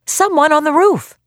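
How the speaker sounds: put-on high, loud child's cry; piercing shout. A narrator's reading. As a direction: shout it up at the roof. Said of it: "came a small but piercing voice".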